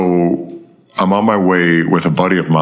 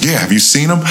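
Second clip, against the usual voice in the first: casual counter-question; 9 semitones higher than usual. Retold or imitated. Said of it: "immediately flipped it on him".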